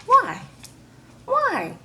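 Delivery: high, loud hammed-up cry of why; mock wailing. Crying mama pleading with her daughter, loud mock wail. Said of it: "she was crying".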